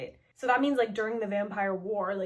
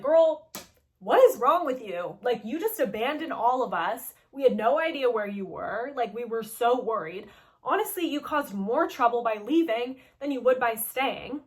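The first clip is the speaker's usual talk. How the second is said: emphatic mock scolding, louder at first; retold reprimanding; 5 dB louder than usual. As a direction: tell them off like an exasperated housemate. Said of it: "gives us a good, like, reprimanding".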